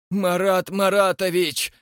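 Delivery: roar. A narrator's reading. Rastopchin calling on Marat, roaring. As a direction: bellow his name. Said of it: "взревел Растопчин".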